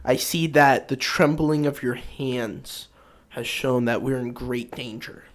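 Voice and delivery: slow, grandly recited tavern poetry; mock poetic. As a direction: speak like an over-poetic tavern patron, unhurried. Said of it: "just poetic".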